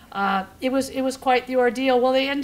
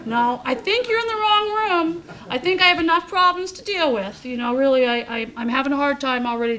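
laughing protest; 2 semitones higher, 3 dB louder than usual. Retold or imitated. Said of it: "retorting to the doctors".

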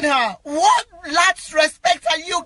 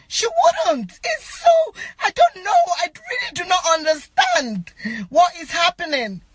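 emotional, near tears. Real, not acted. Grieving friend who cannot understand, distraught. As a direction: let the voice climb and crack with real distress. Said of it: "I'm so emotional about this".

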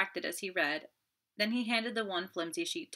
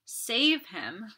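higher, repeated begging; desperate plea; 5 semitones higher, 5 dB louder, slower than usual. Acted. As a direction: plead on her knees. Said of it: "she cried".

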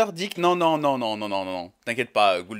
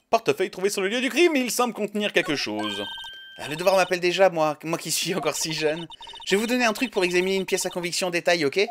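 voix haute de scientifique enthousiaste; jeune enquêtrice zélée; 4 semitones higher than usual. Acted. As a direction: expose la procédure d'une voix perchée. (jeune enquêtrice appliquée, voix aiguë)

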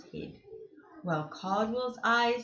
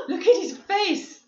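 surprised gasp; 9 semitones higher, 6 dB louder than usual. Real, not acted. Narrator reacts to the roar.

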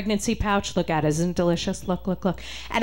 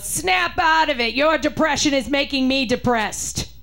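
mother's voice; 5 semitones higher than usual. Retold or imitated. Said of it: "she goes".

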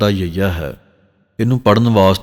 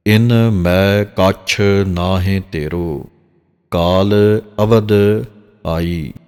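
slow, drawn-out chant of the verse; slow scripture recitation; much slower than usual. Shown as a demonstration. Granthi demonstrating Gurbani pronunciation to the congregation: slow recitation. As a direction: recite each word slowly and carefully. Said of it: "ਇਸ ਤਰ੍ਹਾਂ ਸਾਧ ਸੰਗਤ".

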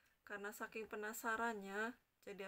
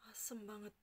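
whispering. Real, not acted. Sour reaction whispered.

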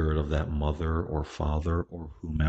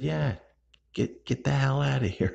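much higher, playful push; emphatic encouragement; 9 semitones higher than usual. Retold or imitated. To grandmother, pushing her to go, high and emphatic. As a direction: cheer her on out the door.

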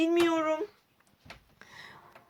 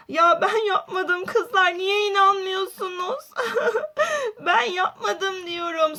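crying. Acted. Suçlanan Aden ağlıyor.

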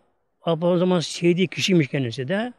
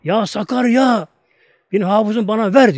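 high, loud, drawn-out plea to the river; mother's cry; 4 semitones higher, 5 dB louder than usual. Retold or imitated. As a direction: wail it out, begging for her son. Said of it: "Bağırıyor ama böyle".

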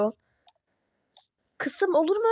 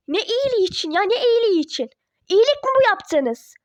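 angry retort; 2 semitones higher than usual. Acted. Daughter rejecting her parents' excuse. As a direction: throw it back at them.

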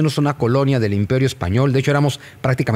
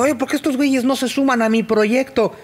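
mock exasperated Morelos; 13 semitones higher than usual. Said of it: "O sea, que digo".

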